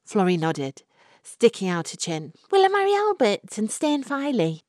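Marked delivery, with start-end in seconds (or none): 2.5-4.6 high, louder anxious question; hopeful young woman. Acted. Florrie anxiously asks the fortune teller about marriage, high. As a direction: ask it hoping hard.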